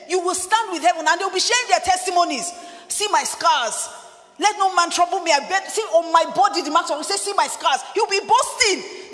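pushed-up, forceful sermon delivery; emphatic preacher in full flow; fervent preaching. Real, not acted. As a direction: proclaim it boldly to the congregation.

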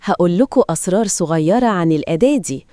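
Egyptian Arabic dialect; Egyptian accent. Shown as a demonstration. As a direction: say it like a Cairo local. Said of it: "صوت لهجة مصرية".

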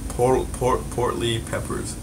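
lips stretched wide. Real, not acted. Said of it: "you put a T instead of a P".

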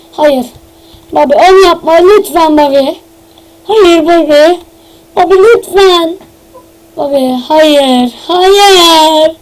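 slow, hammed-up sobbing plea; fake-cry begging him to stop; mock crying. Begging Bobby not to do it, hammed-up mock sob. Pleading with Bobby over the trap.

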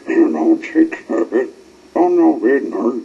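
loud yell; loud urgent yell. A narrator's reading. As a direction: yell to stop them. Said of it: "yelled the Z sticks".

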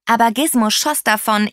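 usual speaking voice

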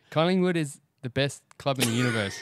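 shaky-footed go at an Irish accent; attempted Irish accent. Shown as a demonstration. Host takes his turn for the Irish guest, rough Irish accent. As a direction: try an Irish accent, landing near a famous Irish singer. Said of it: "can you do an Irish accent".

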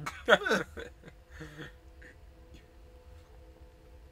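chuckle, then let it fade; long dwindling laugh. Real, not acted. Laughs after missing the ship.

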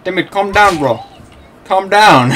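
loud, high, laughing plea to calm down; laughing at a raging rival; laughing shout. Real, not acted. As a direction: yell through laughter. Rival player raging at him.

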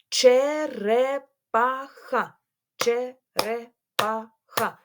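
ЧЕРЕПАХА slowly as че-ре-па-ха; syllable by syllable. Shown as a demonstration. Teacher counting syllables with pupils, syllable by syllable. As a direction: break ЧЕРЕПАХА into four even beats. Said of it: "на склади".

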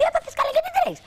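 very high squeaky alarmed friend; Betty's alarmed voice. Retold or imitated. Betty asks why she's speeding, very high alarmed voice. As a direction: play the panicked girlfriend on the bike. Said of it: "μου λέει η Μπέτη".

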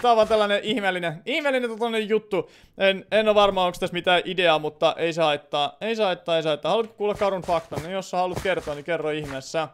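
normal talking voice

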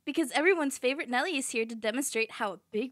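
calling out. Acted. Calling kids round.

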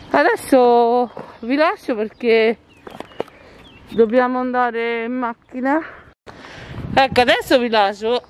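through a face mask. Real, not acted. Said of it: "Una gran fatica a parlare con la foto, con la mascherina".

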